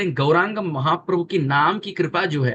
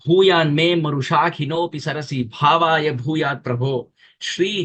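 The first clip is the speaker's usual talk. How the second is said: verse recitation. Acted.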